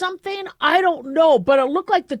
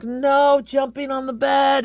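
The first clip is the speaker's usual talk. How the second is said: stern to the dog; 2 semitones higher, slower than usual. Retold or imitated. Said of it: "I'm like".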